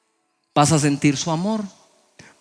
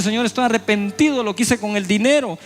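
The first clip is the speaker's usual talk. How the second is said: mock weeping plea, rising higher toward the end; tearful pleading prayer; 4 semitones higher than usual. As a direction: beg God for money, a touch tearful. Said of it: "Está llorando".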